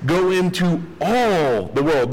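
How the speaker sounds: all leaned on hard in Go into all the world; stress on all. Shown as a demonstration. Preacher stresses all to make a point, leaning on all. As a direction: press the word all, then let it fall. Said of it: "He emphatically says".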